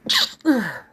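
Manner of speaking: stifle a sneeze with a cough; sneezing. Real, not acted. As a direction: sneeze cut short into a cough. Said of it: "I was about to sneeze".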